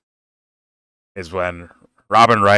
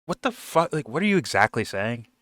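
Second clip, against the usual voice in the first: baffled; 4 semitones higher, 4 dB quieter than usual. Retold or imitated. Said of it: "Tommy's like".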